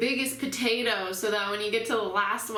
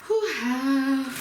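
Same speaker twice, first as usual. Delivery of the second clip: sharp whew exhale; 3 semitones higher, 4 dB louder than usual. Real, not acted. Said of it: "I'm gonna try not to cry".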